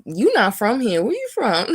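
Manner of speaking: put-on retelling the bathroom girl while laughing; laughing quote. Girl in the bathroom asking where she's from, laughing. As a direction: quote her through a laugh. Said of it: "this one girl in the bathroom was like".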